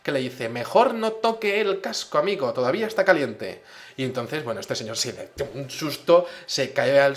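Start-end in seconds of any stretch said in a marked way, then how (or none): 0.5-3.6 booming, much higher and louder warning; sudden thundering voice from nowhere. Retold or imitated. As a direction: boom it out like a voice in his head. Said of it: "suena una voz atronadora".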